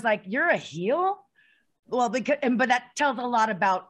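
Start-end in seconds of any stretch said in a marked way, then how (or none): 0.2-1.2 mildly incredulous question, rising sharply; retold shock. Co-host recalls learning the wrestler was a heel, retold shock. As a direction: replay disbelief with a questioning lift. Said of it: "'Cause I was shocked".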